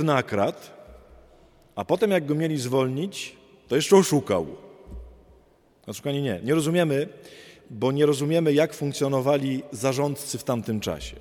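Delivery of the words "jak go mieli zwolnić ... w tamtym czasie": usual speaking voice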